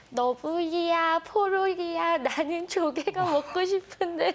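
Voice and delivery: put-on cartoon character voice, slow and high. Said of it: "한번 연습한 걸 해보도록 하겠습니다. ... 보노보노예요".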